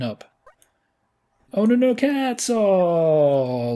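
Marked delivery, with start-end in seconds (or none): 1.5-3.7 higher, louder wail; loud high dismayed cry; anguished cry. Real, not acted. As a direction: yelp as it falls. Stack collapses.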